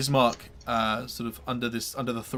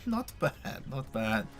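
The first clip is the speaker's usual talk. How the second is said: smirking; 7 dB quieter, slower than usual. Acted. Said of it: "he kinda smirks slightly and goes".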